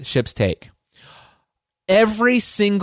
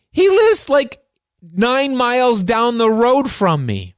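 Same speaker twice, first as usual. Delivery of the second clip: amazed; 8 semitones higher, slower than usual. Real, not acted. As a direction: marvel that he lives so close. Amazed at how close they live.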